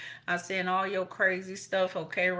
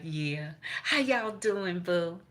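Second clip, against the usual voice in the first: perky greeting; much slower than usual. Retold or imitated. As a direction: chirp the greeting cheerfully. Quoted greeting, repeated.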